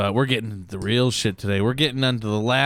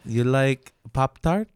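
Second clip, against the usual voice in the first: mock French accent. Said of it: "That's why I did that accent".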